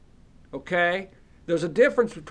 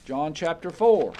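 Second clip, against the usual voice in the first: calling out. Real, not acted. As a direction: call the chapter out to the hall. Calling out the chapter.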